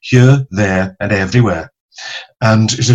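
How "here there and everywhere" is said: "Here, there and everywhere" in a light Welsh accent. Shown as a demonstration. Welsh actor friend demonstrating the vowels, in a Welsh accent. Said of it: "the vital Welsh vowels".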